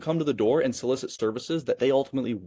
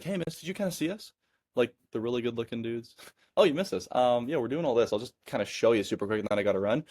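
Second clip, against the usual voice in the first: casual and playful; 4 dB quieter than usual. Shown as a demonstration. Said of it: "creating this curiosity".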